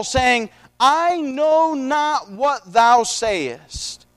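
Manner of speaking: slow, drawn-out Bible reading; scripture reading. A narrator's reading. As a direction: read the verse deliberately, stretching the quoted words. Reads scripture aloud.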